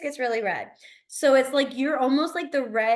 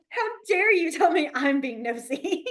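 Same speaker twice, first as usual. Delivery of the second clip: mock outrage; 5 semitones higher than usual. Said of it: "But I'm like".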